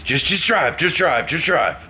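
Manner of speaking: put-on drunk Irish mumble. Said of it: "kind of an Irish accent, but mumbling".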